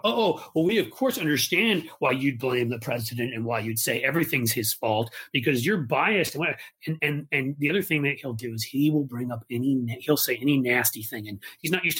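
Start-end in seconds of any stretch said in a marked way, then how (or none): 0.0-6.4 condescending senator lightly voiced; mock Ted Cruz. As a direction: sneer the accusation of bias, mildly mocking. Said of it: "he did that with Chris Cuomo".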